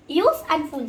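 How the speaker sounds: each half, USE and FULL, set apart; syllable break. Shown as a demonstration. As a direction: USE and FULL as two separate pieces. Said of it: "We can break it easily".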